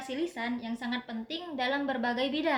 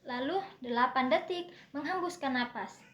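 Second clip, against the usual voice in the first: breathing demo. Shown as a demonstration. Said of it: "di sini saya akan praktekkan".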